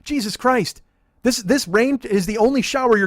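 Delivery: loud, high-pitched comic exasperation; indignant outburst. Acted. Driver rants at homeless man who pitied him, indignant. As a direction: yell back in disbelief at misplaced pity. Mock outburst at pitying hobos.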